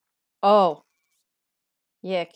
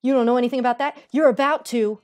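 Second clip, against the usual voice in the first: menacing; 7 dB louder, faster than usual. Pretend. Menacing line, loud.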